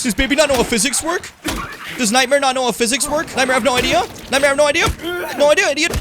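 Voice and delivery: high, loud sneering taunt; mock the enemy, rising. Real, not acted.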